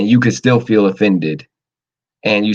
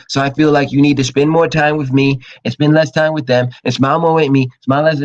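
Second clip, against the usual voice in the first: mock whiny complaint; 2 semitones higher than usual. Mocking a jealous partner listing demands, whiny. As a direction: whine out the demands. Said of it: "Stop saying".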